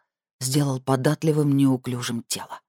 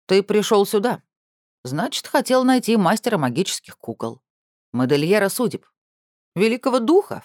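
grand puppet master; 2 semitones higher than usual. Acted. Doll master speaks grandly.

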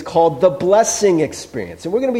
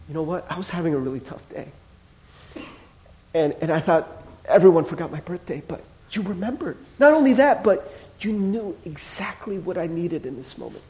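teary thanks; 5 dB quieter than usual. Retold or imitated. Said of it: "they start crying".

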